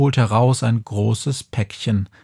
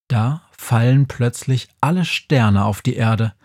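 ordinary delivery, nothing marked

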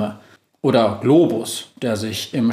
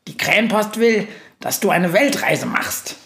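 high excited burst, much higher; blurting out; 7 semitones higher than usual. A narrator's reading. Günther blurting news to the witch, high and excited. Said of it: "platzt Günther heraus".

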